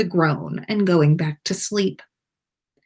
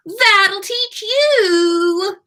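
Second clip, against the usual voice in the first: high, very slow gloating call; chuckling taunt; 13 semitones higher, 4 dB louder, much slower than usual. A narrator's reading. Peeves gloating down at the boys, chuckling. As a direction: crow it out with a chuckle. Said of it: "Peeves called with a chuckle".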